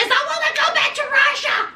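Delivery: high, put-on whiny wail; imitating Julia wailing, pitched high; mock wail. Julia crying to Brandon, a high mock wail. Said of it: "She's screaming".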